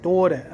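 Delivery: Philly accent on "daughter". Shown as a demonstration. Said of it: "I guess I say".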